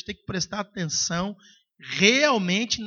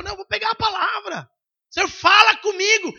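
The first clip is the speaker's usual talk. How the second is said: imitated resolve; 11 semitones higher, 4 dB louder than usual. Believer resolves, imagined quote.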